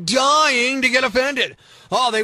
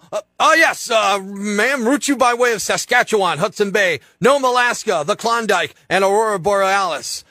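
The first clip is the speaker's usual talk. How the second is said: lightly voiced ticket clerk. Clerk lists the route to the child, lightly voiced agent. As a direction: read the route like a bored agent.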